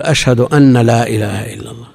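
أنّ said with a long doubled nun; the common mistake of doubling the nun. Shown as a demonstration. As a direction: press hard on the nun of أن. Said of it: "يشدد النون".

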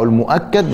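المؤكد with "a" after the doubled k, al-mu'akkad; fatha on the kaf. Shown as a demonstration. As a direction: say المؤكد ending in -kad, not -kid. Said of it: "بفتح الكاف".

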